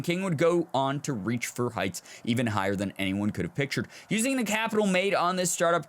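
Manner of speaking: measured news-profile narration; article read aloud. Acted.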